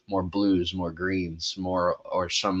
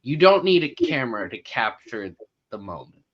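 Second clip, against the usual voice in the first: mock imitation of a singer; 4 semitones higher, 4 dB louder than usual. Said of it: "in the words of Ed Sheeran".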